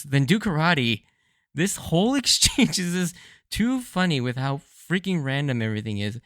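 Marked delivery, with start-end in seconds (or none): 0.0-1.0 mock-annoyed comeback, louder and higher; annoyed retort. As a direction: fire back like an irritated Sanji. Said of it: "kind of annoyed, quickly retorts".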